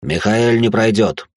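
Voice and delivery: slow, firm, stress on не; father's flat verdict; summing up. A narrator's reading. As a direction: state it as a final verdict. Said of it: "подытожил Теодор-старший".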